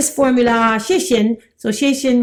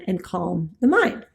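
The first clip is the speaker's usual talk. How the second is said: whisper; 3 semitones lower, 5 dB quieter than usual. Acted. Soothing point of the list.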